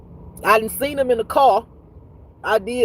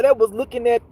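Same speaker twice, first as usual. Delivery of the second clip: ordinary delivery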